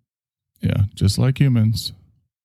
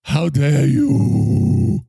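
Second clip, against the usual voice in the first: very slow, drawn-out mock outrage ending on a rise; hammed-up indignant catchphrase; Greta Thunberg voice; 5 semitones higher, 3 dB louder, much slower than usual. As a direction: stretch it out theatrically. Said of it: "it's Greta Thunberg".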